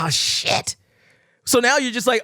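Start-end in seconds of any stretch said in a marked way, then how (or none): 0.0-0.8 whispered dread. Retold or imitated. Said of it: "You're like".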